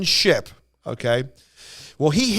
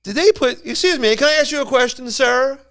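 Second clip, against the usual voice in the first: a mildly voiced polite questioner; lightly put-on courteous asker; polite retold question; 2 semitones higher than usual. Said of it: "Al asked this old man".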